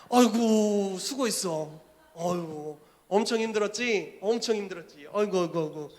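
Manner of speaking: comforting pastor. Acted. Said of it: "목사가 다시 안아요".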